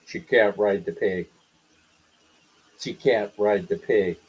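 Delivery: a hint of a robot rulebook guard; robotic attendant. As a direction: drone it like a machine. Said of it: "What are you, a robot?".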